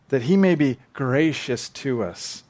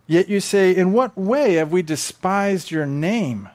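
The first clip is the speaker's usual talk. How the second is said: indignant retort; 5 semitones higher, 5 dB louder than usual. Acted. Voices the priests' indignant retort.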